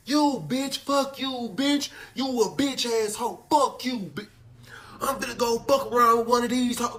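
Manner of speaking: high, slow drawn-out yelled insults; hollering from window. Retold or imitated. Boyfriend yelling insults out the cell window, high drawn-out hollering. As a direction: stretch each insult out like yelling across the yard. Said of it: "I know that voice".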